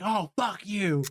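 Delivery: slow, drawn-out mock "fuck you"; imitating Phoebe's retort. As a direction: stretch it out as a mock insult. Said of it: "She's like".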